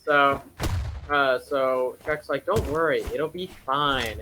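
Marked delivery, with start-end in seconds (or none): 2.5-4.2 light mock Scottish accent as Shrek; a half-hearted Scottish Shrek. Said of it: "in this weird Scottish accent that he has".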